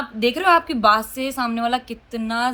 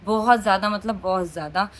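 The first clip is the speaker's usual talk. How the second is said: बहुत ज़्यादा pressed hard, बहुत hit first; stress on बहुत; 2 semitones lower than usual. Real, not acted. Telling viewers how emotional she is, stressing बहुत. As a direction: lean on बहुत each time. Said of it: "बहुत ज़्यादा emotional लड़की हूँ".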